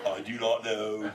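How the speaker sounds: low, deadpan surfer admission; retold clueless answer. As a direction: own up after a long blank pause. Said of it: "and I'm like".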